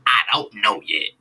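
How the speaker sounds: loud, punched-out promo impression; mock wrestler's bellow, hammering each word; Dusty Rhodes. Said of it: "Dusty then says".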